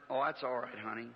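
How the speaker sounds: low, resigned reassurance; comforting. Retold or imitated. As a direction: soothe your sweetheart gently. Comforts his crying fiancée, retold.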